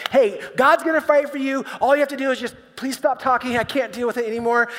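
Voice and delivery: a leader at the end of his rope; exasperated Moses. Retold or imitated. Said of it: "he's like".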